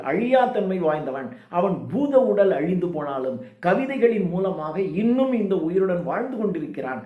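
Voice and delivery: ordinary talk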